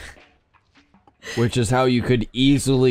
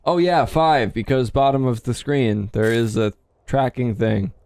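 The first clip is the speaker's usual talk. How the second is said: mocking quote. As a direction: mimic the partner's claim teasingly. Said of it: "I didn't say bottom of screen".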